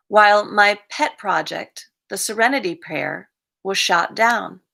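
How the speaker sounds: measured daily-reading delivery; reading aloud. Acted. Reading a recovery reflection to the group, read-aloud voice. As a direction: read it out evenly, phrase by phrase.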